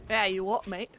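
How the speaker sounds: cheeky British pub banter; hammed-up British accent; mock British. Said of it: "my British friends are just cringing".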